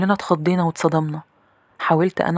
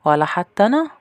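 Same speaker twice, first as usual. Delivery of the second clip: pitched-up questioning interruption; maid's voice; 4 semitones higher, 4 dB louder than usual. Acted. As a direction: cut in as the maid, voice rising at the end. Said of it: "ده كان صوت الخدامة".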